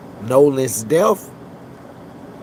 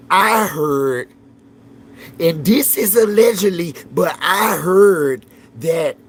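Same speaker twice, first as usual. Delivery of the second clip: higher, slower gossip-spreading voice; mock him spilling the rumor; mocking YouTuber gossip; 3 semitones higher than usual. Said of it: "He said".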